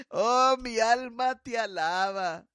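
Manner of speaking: tearful praise. Real, not acted. Pastora crying out praise after the story. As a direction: cry out praise to God.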